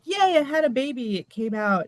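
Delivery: a hammed-up sing-song of baby joy; mock cheerful new mom. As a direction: parody the forced happiness new moms are expected to show.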